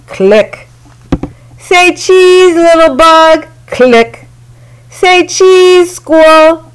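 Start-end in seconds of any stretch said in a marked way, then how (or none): 1.6-3.5 higher and a bit louder, sing-song say cheese; playful photographer voice; cheery photo call. A narrator's reading. Ruthie taking photos happily. 4.9-6.7 higher and a bit louder, sing-song say cheese; playful photographer voice; cheery photo call. A narrator's reading. Ruthie taking photos happily.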